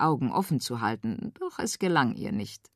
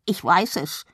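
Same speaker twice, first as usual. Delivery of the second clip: exclaiming; 2 semitones higher than usual. A narrator's reading. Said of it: "rief er".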